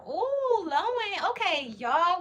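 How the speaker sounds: thrilled at the viewer's pickup line; delighted squeal. Real, not acted.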